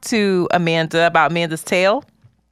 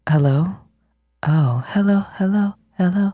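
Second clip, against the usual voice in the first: low sultry voice; 2 semitones lower than usual. Shown as a demonstration. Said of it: "is this the voice that I should put on?".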